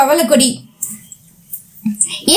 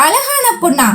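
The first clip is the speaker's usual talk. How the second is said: 高声惊讶反问; 被夸漂亮时扬声反问; mock surprise; 6 semitones higher than usual. Girl scoffs at compliment.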